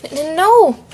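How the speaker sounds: high, loud stammered scream of refusal. A narrator's reading. Narrator screams at Jeff from the foot of the stairs, screaming. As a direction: stammer out a panicked-sounding cry, pitch rising. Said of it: "I screamed".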